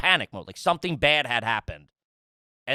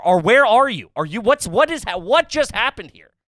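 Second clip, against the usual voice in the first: higher, louder, frantic mock questions; retelling his frantic texts to wife, louder and higher; panicked texting; 6 semitones higher, 6 dB louder than usual. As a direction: rattle off confused panicked questions. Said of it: "Finally, I text her".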